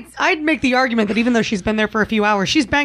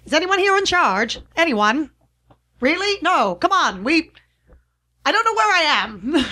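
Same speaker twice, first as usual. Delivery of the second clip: distressed plea; 6 semitones higher than usual. Acted.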